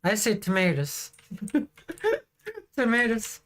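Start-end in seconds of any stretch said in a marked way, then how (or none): 1.5-3.4 laughing. Real, not acted. Laughs on word.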